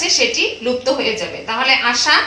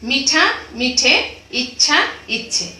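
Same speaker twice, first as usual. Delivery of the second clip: slow word demo. Shown as a demonstration. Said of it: "চলিত বাংলা স্বরসঙ্গতি".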